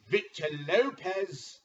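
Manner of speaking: loud, slow drawn-out name call; announcer intro. Acted. Commissioner introducing the next member. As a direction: call him to the ring.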